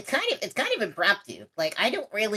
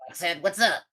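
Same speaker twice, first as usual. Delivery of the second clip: gruff weapons voice. Acted. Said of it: "gruff voice".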